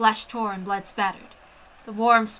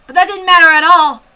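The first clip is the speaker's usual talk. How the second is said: frantic; 6 semitones higher, 11 dB louder than usual. Acted. Frantic flight.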